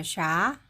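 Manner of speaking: "샤" one short syllable sha; "샤" tek hece şa; sha sound. Shown as a demonstration. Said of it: "샤처럼 들리시죠".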